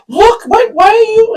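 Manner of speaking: high-pitched excited nagging, retold; imitated urging. Imitates companion's urgent exclamation.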